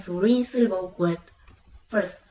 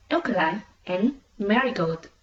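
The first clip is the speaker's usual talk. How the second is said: "alkaline and marigold" with AL and MA strongest; stress off the final syllable. Shown as a demonstration. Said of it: "will not usually receive the primary stress".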